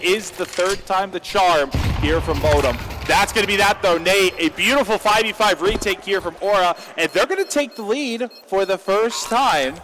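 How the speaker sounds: loud, high-pitched esports call; excited play-by-play. Real, not acted. Caster calling the third opportunity to clutch it, excited play-by-play. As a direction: raise pitch and volume as the clutch builds.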